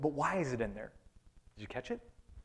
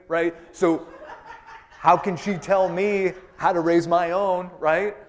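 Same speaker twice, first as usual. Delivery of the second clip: louder, griping about the mother-in-law, building to a loud rant; complaining churchgoer; 6 dB louder than usual. Acted. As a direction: vent like a fed-up daughter-in-law, louder at the end. Preacher voicing a complaining churchgoer.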